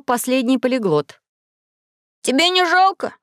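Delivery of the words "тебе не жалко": high, startled question; sudden concern. Acted. Maxim suddenly worried for his friend, high and startled. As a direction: catch yourself and ask in alarm. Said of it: "спохватился Максим".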